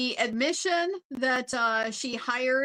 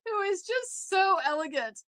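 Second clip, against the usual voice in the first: usual speaking voice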